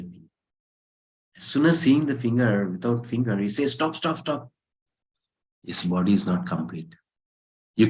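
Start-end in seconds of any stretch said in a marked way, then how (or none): 3.7-4.5 high, quick, softened calls to stop; urgent halt. Acted. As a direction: halt them, pitched up high. Tribal head halts the sacrifice.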